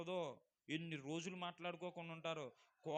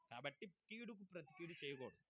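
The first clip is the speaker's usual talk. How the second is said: quiet restatement; 8 dB quieter than usual. Acted. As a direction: settle it gently for them. Quiet repeat of the rule. (కీడుకు ప్రతి కీడు చేయకూడదు అని మెల్లగా మళ్ళీ చెప్పడం)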